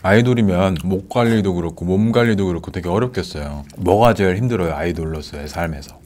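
talking between bites; chewing while talking. Real, not acted. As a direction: mouth partly full of food. Seen 1: Man holds fried chicken, mouth puckered, chewing while asking questions.

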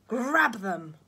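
loud sharp command; barked order. A narrator's reading. Miss Swine orders the nurse to grab them, loud. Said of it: "ordered Miss Swine".

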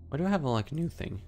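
cracking voice. Real, not acted. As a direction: let the voice crack. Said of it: "Nice voice crack".

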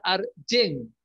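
"Argen" with a j-like g, as in "jen"; English pronunciation. Shown as a demonstration. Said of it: "En inglés se pronuncia".

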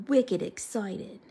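slow Boston-accented "wicked excited"; drawn-out Boston accent. Shown as a demonstration. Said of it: "like, a Boston accent".

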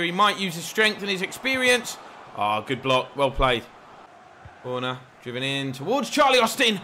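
live football commentary, rising on the big moments; play-by-play commentary. Acted. Gamer voicing a commentator over his match, lively play-by-play.

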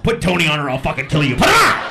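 fast shouted threat rising to a shriek; hammed-up raging caller; furious threat. Acted threat after repeated redialling.

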